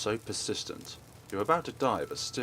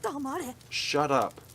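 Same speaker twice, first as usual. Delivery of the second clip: angry snap; slower than usual. Acted. Boy silencing Naomi before the kill, angry and sharp. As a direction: shut her up with a snarl.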